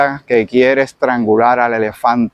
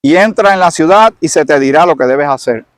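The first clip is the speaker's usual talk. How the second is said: Levántate called high and louder; the Lord commands Saulo to get up, loud; commanding voice of the Lord; 3 semitones higher, 3 dB louder than usual. Acted. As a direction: order him to rise. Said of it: "y el Señor le dijo".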